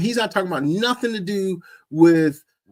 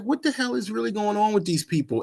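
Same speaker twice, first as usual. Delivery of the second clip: incredulous; 6 semitones higher, 5 dB quieter, faster than usual. Real, not acted. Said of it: "disbelief at the congregation".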